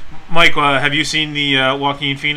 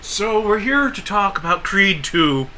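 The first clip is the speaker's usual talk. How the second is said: mock interviewer; 5 semitones higher, slower than usual. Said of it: "I'd ask 'em questions".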